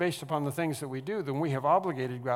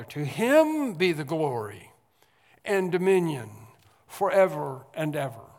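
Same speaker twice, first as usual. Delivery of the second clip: proclaimed louder; 5 dB louder than usual. Acted. Scripture doxology proclaimed.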